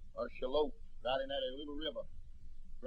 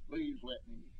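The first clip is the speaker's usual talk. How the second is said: high, soft, hushed begging; soft plea; 11 semitones higher, 8 dB quieter than usual. Retold or imitated. The preacher echoes the damned crowd's plea, hushed and high. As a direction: let the plea fade like a far-off echo.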